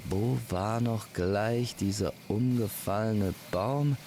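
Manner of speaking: lilting, pondering question to oneself; musing search. Acted. Searching aloud for the fallen tree.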